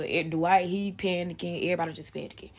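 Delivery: ordinary talk, nothing marked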